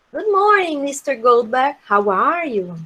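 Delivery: polite, measured formal hello; formal greeting. Shown as a demonstration. Teacher reading a formal greeting example to learners, formal. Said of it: "Olha quanta formalidade".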